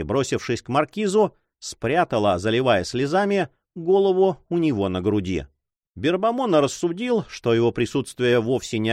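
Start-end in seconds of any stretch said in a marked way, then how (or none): none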